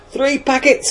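loud, high-pitched holler; shouting out. A narrator's reading. Lad yelling out his discovery to everyone, shouting out. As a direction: yell it out like scandalous news. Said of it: "he shouted out".

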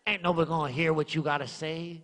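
hint of a sly devil, quick; mild mock devil taunt; devil's whisper. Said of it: "the devil will whisper in my ear".

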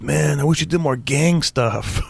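slow, drawled gang-guy impression; slow gangster voice. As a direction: lean into a slow street-tough voice. Fan asking for gang material.

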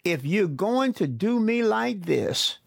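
a touch of blaming frustration; frustrated Moses. Acted. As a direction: accuse the Lord, mildly heated. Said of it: "projects his frustration".

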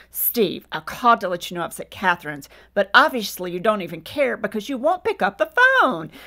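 mildly cutting voicemail, retold; caustic. Wife leaving husband a message, caustic. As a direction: imitate a huffy accusing message. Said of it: "very caustic, and I said".

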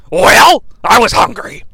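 put-on sulky whine; mock-pitiful excuse, opening loud. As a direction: play the scolded child, hammed up. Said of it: "he's doing a down voice".

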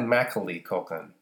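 Macaulay with the stress up front, MACK-uh-lee; mispronounced Macaulay. Shown as a demonstration. Showing a wrong name, Macaulay as MACK-uh-lee. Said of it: "even if I said".

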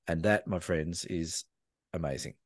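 low, hushed payoff with weighty pauses; dramatic wrap-up. Real, not acted. Storyteller closing his tale for friends, dramatic wrap-up.

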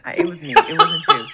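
squeaky high, over-apologetic voice; hammed-up high-pitched apology; mock apologetic. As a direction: climb way up as you take the blame. Over-apologizing to the woman, acted.

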